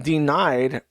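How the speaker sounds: "denied" stretched slowly and deliberately; stress on denied. Shown as a demonstration. Commentator repeating the state's ruling, deliberate emphatic "denied". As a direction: say "denied" as bold text, slow and weighty. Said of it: "bold text".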